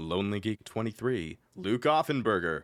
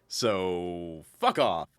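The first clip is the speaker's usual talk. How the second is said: aggressive; 4 semitones lower, much slower than usual. Acted. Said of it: "That one was probably a little aggressive".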